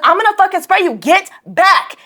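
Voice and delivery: high, forceful warning; heated reenacted warning; retold angry threat. Retold threat to approaching boy.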